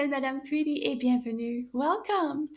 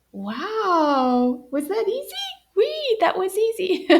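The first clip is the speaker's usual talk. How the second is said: puppet voice; 7 semitones higher, 4 dB louder than usual. Acted. Puppet Anana speaks.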